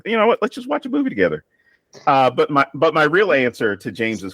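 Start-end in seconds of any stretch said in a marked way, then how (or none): 0.1-1.4 mom's ghost. Retold or imitated. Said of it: "because it'd be like".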